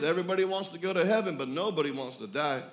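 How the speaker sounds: slight country accent, falling from high. Real, not acted. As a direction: say it with a bit of country twang. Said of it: "kind of a country accent".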